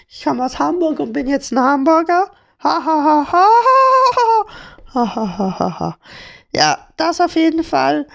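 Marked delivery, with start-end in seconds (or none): 2.6-6.0 exaggerated ha ha ha laugh, spelled out; mock laugh. Real, not acted. Host laughing at his own Hamburger pun. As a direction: laugh it out in staccato syllables.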